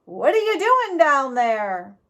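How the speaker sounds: a hint of a rough frontier man; gruff stranger. A narrator's reading. Stranger questioning Jack down in the hole, lightly voiced. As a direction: voice the big stranger, mildly gruff.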